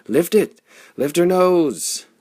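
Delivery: loud, high urgent command, slow on the second; shouting. Acted. Flame orders the helmsman to lift the ship, shouted. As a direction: bellow the order at the helm.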